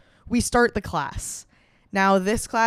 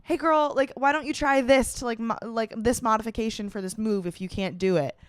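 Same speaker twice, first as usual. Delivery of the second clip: bright, upbeat coach voice, pitched up; chirpy trainer offering a modification; lightly voiced peppy instructor; perky instructor voice; 3 semitones higher than usual. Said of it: "so she's like".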